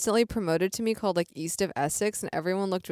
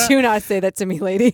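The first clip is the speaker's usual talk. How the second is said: mock scolding; 7 dB louder than usual. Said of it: "I was like".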